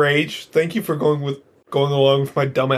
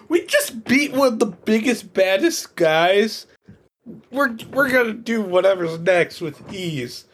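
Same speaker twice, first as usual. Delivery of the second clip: cocky boast; 4 semitones higher than usual. Retold or imitated. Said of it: "it's like".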